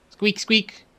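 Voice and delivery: high, slow stammering mouse; squeaky mouse. Acted. Mouse character stuttering, high and timid.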